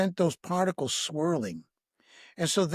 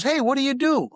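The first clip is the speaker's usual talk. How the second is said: eager question; 8 semitones higher, 6 dB louder than usual. Retold or imitated. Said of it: "And he goes".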